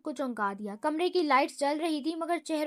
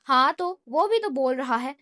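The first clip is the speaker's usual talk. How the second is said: mock wronged whine; 6 dB louder than usual. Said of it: "مزید مظلوم بن کر کہا".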